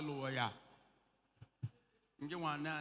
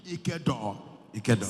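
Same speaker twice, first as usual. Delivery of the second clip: called out; 6 semitones lower, 6 dB louder, slower than usual. Acted. Preacher calls out.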